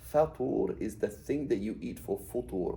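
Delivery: slow FATUR with a, FUTUR with u; vowel pattern contrast. Shown as a demonstration. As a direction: set open FATUR against rounded FUTUR. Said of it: "this pattern".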